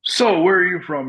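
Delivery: put-on a friendly foreigner asking, in a Moldovan accent. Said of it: "through his thick Moldovan accent".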